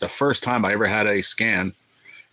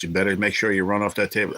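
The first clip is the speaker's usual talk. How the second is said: ordinary talk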